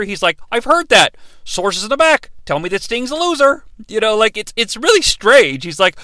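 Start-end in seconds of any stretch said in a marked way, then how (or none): 0.5-3.6 lightly voiced wrestling heel; mock gossiping heel, pitched up a bit; heel-esque character. Wrestler passing on backstage rumors, lightly hammed-up heel. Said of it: "sort of starts to reveal this heel-esque character".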